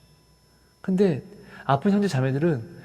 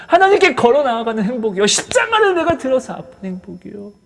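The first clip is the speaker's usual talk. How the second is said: fervent prayer; 7 semitones higher, 6 dB louder than usual. Acted. Pastor prays aloud, building.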